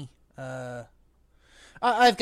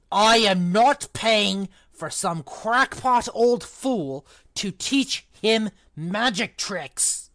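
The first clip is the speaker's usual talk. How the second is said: slow, loud, higher angry yell; 4 semitones higher, 9 dB louder, slower than usual. Acted. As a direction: bellow it at the giant, furious. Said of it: "yelled Uncle Vernon".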